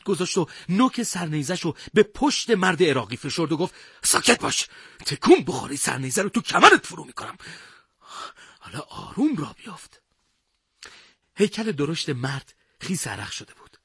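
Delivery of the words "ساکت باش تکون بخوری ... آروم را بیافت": tense, forceful hushed threat; urgent, pressed warning, voice raised in pitch; menacing threat. A narrator's reading. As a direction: threaten the captive at bayonet point. Threatens captive at bayonet point.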